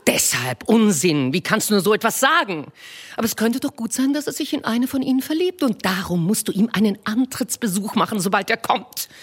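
Mrs Bennet voiced high and bright-eyed, fussing; a high, eager matron gushing to her husband; eager wife. Wife to her husband with news, eager high voice.

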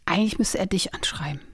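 whispered aside; confiding whisper. Real, not acted. Advising her friend about her crush, a confiding whisper. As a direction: say it softly as a secret tip.

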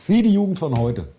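schimpft hoch und laut wie ein alter Grantler; grumpy old man. Pretend. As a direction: meckernder Rentner über die Jugend. Klage über undankbare Jugend. (grantiger alter Mann)

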